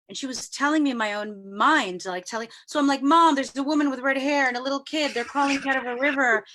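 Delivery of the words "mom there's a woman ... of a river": louder, lively retold alarm; excitedly re-enacted outburst; urgent report to mom. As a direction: act out a teen urgently telling mom.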